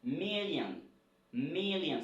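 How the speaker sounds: "million" stressed on the first syllable, ending "-yan"; English pronunciation. Shown as a demonstration. Teacher models the English word for repeating, clear model pronunciation. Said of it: "Ce n'est pas million".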